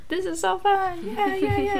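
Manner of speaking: high-pitched imitation of an overexcited boy; excited kid. Boy running around crazy at the cabin, mock excited squeal. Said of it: "just running around crazy, like".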